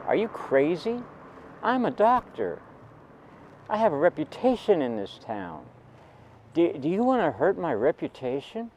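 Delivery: a retold father's outrage about his reputation; indignant father. Angry father scolding his son.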